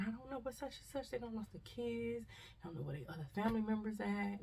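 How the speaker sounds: panicked bystander. Retold or imitated. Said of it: "I hear people still saying".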